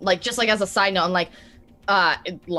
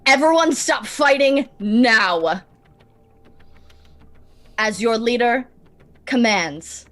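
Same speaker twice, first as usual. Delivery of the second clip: firm, slow, raised command; screamed command; 2 semitones higher, 4 dB louder than usual. Acted. Player's character ordering everyone to stop fighting, screamed command. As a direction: call it out like a leader giving orders. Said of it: "scream out to everyone".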